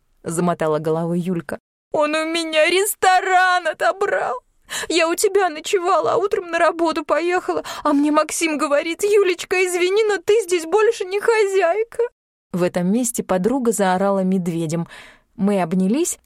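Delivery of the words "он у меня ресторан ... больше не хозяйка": high, crying complaint; tearful. A narrator's reading. Yulka sobs to her friend about losing the restaurant, crying. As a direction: wail out the injustice.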